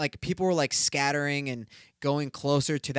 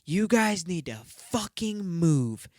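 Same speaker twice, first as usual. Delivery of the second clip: slow, higher snotty demand; slow, higher mock of a rude girl; 4 semitones higher, slower than usual. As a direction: imitate the rude girl slowly. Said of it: "just was like".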